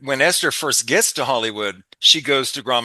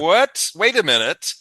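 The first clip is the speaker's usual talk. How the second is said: a lightly acted aha moment; sudden realization; 4 semitones higher than usual. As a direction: catch yourself as it dawns on you. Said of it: "And he's like".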